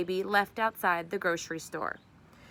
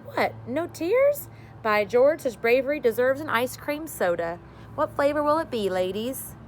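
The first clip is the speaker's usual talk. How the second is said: hearty host voice; 4 semitones higher, 6 dB louder than usual. Acted. Party host praising the brave girls, loud and jolly. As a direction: boom it out like a cheerful party dad.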